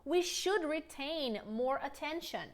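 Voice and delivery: slow, clear model sentence; deliberate teacher pacing; slow model line. Shown as a demonstration. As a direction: model it slowly to repeat. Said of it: "Repeat with me".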